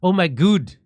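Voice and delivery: mock Kiwi "good" with a long oo; New Zealand accent. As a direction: try a New Zealand "God" as "gooood". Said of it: "Or maybe it's good".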